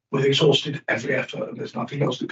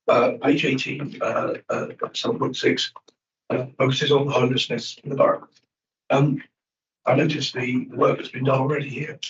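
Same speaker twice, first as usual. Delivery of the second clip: squeaky voice. Real, not acted. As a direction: voice gone squeaky, straining through. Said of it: "do excuse my squeaky voice".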